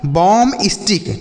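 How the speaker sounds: बॉम स्टिक with the second b silent; correct pronunciation. Shown as a demonstration. Teacher showing children the silent B, बॉम स्टिक as "bom-istik". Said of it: "सही जो उच्चारण होगा".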